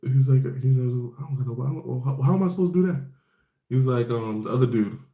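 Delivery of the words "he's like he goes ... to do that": higher, fast flustered protest; panicked question. Retold or imitated. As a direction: sound frantic and overwhelmed. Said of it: "Kobe's like".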